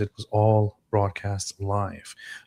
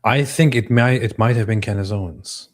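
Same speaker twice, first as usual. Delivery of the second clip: imitating Candace Owens' delivery; 4 dB louder than usual. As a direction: parody her weighty, deliberate "I think". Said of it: "when she talks like this".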